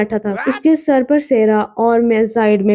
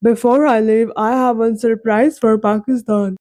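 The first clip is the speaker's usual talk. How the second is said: slow, careful English in a different voice; Ronaldo, gently; much slower than usual. A narrator's reading. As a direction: lay it out slowly, stunned. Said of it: "उसने मेरी तरफ देखा और बोला".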